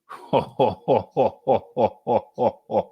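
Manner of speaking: a long, drawn-out rueful laugh. Real, not acted. Host reacting to the doping news with a rueful laugh. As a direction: laugh it off in disbelief.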